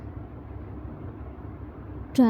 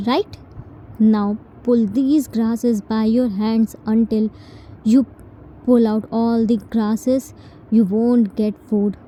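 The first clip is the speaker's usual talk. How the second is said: firm indignant rebuke. Acted. Jin telling T she is no maid, firm and indignant. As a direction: lay down who you are, word by word.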